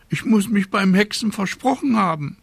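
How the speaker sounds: high-pitched little witch voice. A narrator's reading. Little witch excusing her botched spell, high voice.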